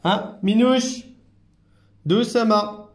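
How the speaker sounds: high, drawn-out gentle warning; singsong cautioning. Real, not acted. Carer urging nervous Minouche to go gently, high cautioning singsong. Calming an agitated pet.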